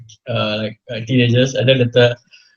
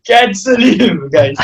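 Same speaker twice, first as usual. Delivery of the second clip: mock outrage; 4 semitones higher, slower than usual. Real, not acted. Joking outrage at dark joke.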